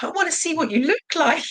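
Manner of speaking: put-on high, eager little-girl voice; girly daughter. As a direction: sound like the keen youngest daughter. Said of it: "She was like".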